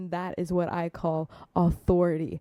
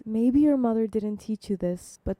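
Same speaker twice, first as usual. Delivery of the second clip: very loving. Retold or imitated. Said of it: "talking to her very lovingly".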